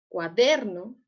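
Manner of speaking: "Cuaderno" with DER leaned on; cua-DER-no, bring out the middle syllable; stress on DER. Shown as a demonstration. Teacher repeating it so students find the syllable, stressed DER in "Cuaderno". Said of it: "En dónde está la sílaba tónica".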